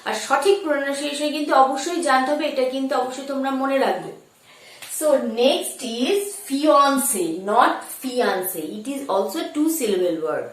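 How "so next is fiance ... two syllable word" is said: fiance said very slowly; slow careful classroom English; slow teaching read. Shown as a demonstration. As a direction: spell the word out for the class. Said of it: "দেখো এইভাবে বলবে".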